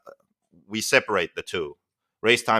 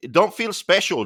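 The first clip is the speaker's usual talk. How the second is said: mocking shout; 10 semitones higher, 5 dB louder than usual. Real, not acted. Co-host mocking Dave, raised voice.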